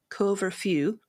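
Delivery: couvre-feu said in a clumsy French accent; couvre-feu, mock French; weird French accent. Shown as a demonstration. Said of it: "I just said that in a weird accent".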